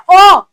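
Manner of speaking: ओ as an open "aw", like in law; AW sound. Shown as a demonstration. Teacher demonstrating the letters AW, open "aw" for ओ. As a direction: open the vowel ओ to "aw". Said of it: "जैसे एडब्ल्यू की sound होती है".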